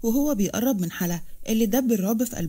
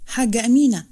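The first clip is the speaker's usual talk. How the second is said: louder call of حاجة أمينة, the name أمينة raised and falling; strong voice; 6 dB louder than usual. Acted. Farah calls Amina out in the hall, loud. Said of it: "وقالت بصوت قوي".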